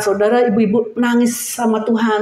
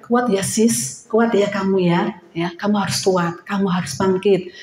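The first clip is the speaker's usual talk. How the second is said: softer, gentle encouragement; comforting friend; 3 semitones lower, 4 dB quieter than usual. Acted. Friend softly encouraging a woman who is struggling. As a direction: soothe her like a trusted friend.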